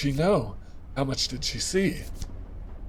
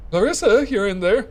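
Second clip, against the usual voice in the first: raised voice calling her name through a cabin door; 6 semitones higher, 4 dB louder than usual. Acted. Player calling to Clarissa through her locked cabin door, raised voice.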